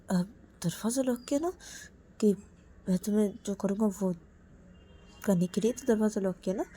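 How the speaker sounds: quiet sinister warning. Acted. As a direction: threaten him quietly. Menacing after locking door.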